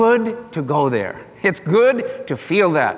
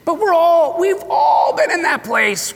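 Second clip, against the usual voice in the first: exclaiming; 12 semitones higher than usual. Real, not acted. Preacher exclaiming to congregation.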